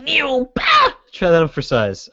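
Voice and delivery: slow drawn-out taunt. Pretend. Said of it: "throwing a dodgeball at a wimpy kid".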